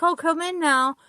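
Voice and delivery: a cheery odd host hauling someone in; jolly strange man. Retold or imitated. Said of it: "He's like".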